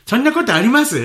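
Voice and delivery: high mock-sympathetic question; annoying fake sympathy. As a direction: play the coworker's smug concern. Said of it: "イライラするでしょ".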